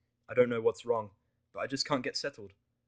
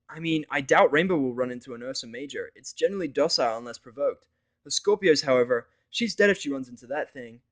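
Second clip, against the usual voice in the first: higher, louder grim warning; Vinyl's voice; 4 semitones higher, 10 dB louder than usual. Acted. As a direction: mare warning of a deadly beast. Vinyl warns about Scorpios.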